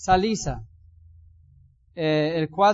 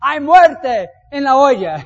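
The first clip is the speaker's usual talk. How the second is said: loud, high, slow cry of alarm; the sons of the prophets crying to the man of God, loud slow alarm; desperate shout; 6 semitones higher, 11 dB louder, slower than usual. A narrator's reading. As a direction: cry out in panic that the food is poisoned. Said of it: "gritaron diciendo".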